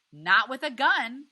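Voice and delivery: wife yelling at her husband, tearful and furious. A narrator's reading. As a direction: scream it through tears at your husband. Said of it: "Graham yells".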